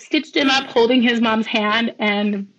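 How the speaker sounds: real tearful. Real, not acted. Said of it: "I might cry when I say this".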